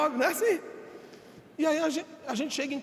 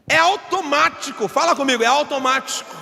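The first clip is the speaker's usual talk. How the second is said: emphatic preaching; 3 semitones higher, 7 dB louder than usual. Acted.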